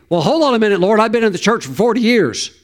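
high, hurried acted objection; mock protest. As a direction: object quickly as a put-out churchgoer. Acting out a protesting churchgoer.

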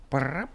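soft imitated pigeon trill; pigeon-like cat trill. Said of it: "My cat makes pigeon noises".

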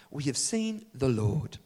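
slow, deadpan and unexcited; matter-of-fact, with no excitement at all; flat, dull report. Shown as a demonstration. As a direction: say it like it's no big news. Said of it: "Can you imagine that they say it so like this?".

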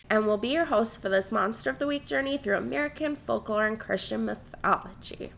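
stuffy nose from a cold; blocked nose. Real, not acted. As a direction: talk through a blocked nose. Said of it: "I can't breathe through my nose".

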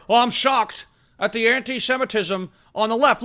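lightly voiced mock-shocked anchor; sarcastic fake shock; a hint of a pompous newsman; mocking Jake Tapper. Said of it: "employs this guy, uh, Jake Tapper".

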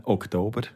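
"Oktober" with deliberate Romansh word stress; careful stress on Oktober. Shown as a demonstration. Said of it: "mit der Betonung achten".

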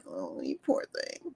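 soft, hushed pitying croon; hammed-up pitying hush; mock pity. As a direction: coo over them with fake pity. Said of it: "different than".

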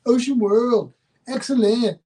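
Wayne's World voice. Retold or imitated. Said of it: "He looked like Wayne from Wayne's World".

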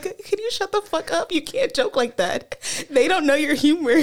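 husband hissing at his wife to stop joking; retold scolding. Husband scolds drunk wife in hotel hall, mock anger. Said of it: "he's like".

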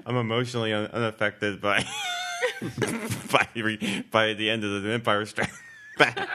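mock profile line broken by laughter; cracking up. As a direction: keep stopping to laugh as you read it out.

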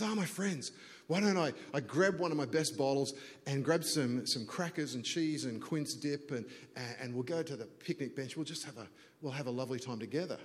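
lightly voiced Hungarian grandfather; a hint of a hospitable Hungarian host; Hungarian accent. Winery owner invites guests to picnic, light Hungarian accent. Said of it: "gregarious Hungarian kind of grandfather type figure".

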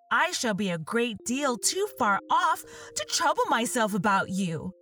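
Alice worrying about her feet; tender young Alice. Acted.

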